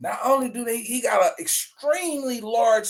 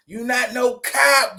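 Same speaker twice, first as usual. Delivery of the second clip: "You not no cop" shouted slowly and a bit higher; mock shouted taunt; 4 semitones higher, slower than usual. Host calling out the rapper in a slow mock shout. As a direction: yell the taunt slowly, drawing each word out.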